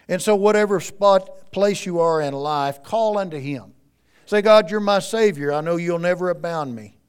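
loud, rising preacher's plea; full-force preaching. Acted. Preacher urging the congregation to pray, loud and fervent. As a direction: urge them to cry out to God.

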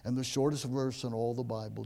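ordinary talk, nothing marked

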